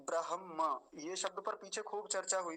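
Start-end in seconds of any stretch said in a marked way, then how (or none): 0.0-0.8 ब्रह्म as bra-ham-maa, the m last and held; careful pronunciation. Shown as a demonstration. Teacher showing students the word, careful pronunciation. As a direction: say ब्रह्म syllable by syllable, ending on maa. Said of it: "इस शब्द को थोड़ा ध्यान से देखेंगे".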